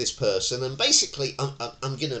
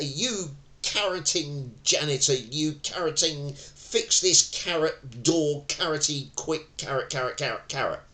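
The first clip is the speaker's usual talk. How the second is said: mock angry tenant; 5 semitones higher than usual. Tenant swearing at janitor over door.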